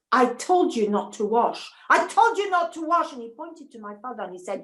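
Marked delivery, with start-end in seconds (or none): 0.1-1.7 a touch of horror in a man's warning; horrified man. Acted. Man scolding the girl, mildly horrified warning. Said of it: "he was horrified and said". 1.9-3.1 horrified outburst. Acted. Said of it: "he was horrified and said".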